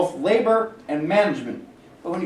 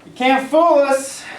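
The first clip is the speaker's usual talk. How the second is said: accusing; 6 semitones higher, 5 dB louder, slower than usual. Acted. Boss accuses union men.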